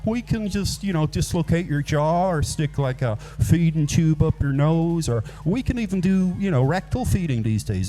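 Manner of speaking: high-pitched helpful waitress impression; mock-reassure a customer in a high voice; comic high server voice; imitating American waitress. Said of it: "she was like".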